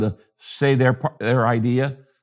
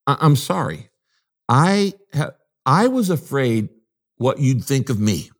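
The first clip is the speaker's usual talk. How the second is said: humble sincere apology; 3 semitones higher than usual. Pretend. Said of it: "I said".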